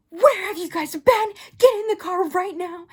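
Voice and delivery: loud, high tearful scolding imitation; crying mom. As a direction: yell like a frantic mother in tears. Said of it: "And she's crying".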